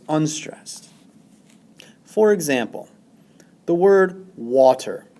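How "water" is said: water, WA hit louder, ter light; stress on WA. Shown as a demonstration. Teacher showing students where water is stressed, first syllable punched. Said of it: "The first syllable, wa, is stressed".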